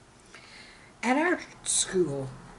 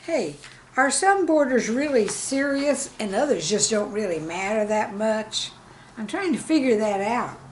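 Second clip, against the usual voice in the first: lightly voiced puzzled girl, higher; curious girl; 3 semitones higher, 3 dB louder than usual. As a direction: wonder aloud like a map-loving kid. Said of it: "She asked me".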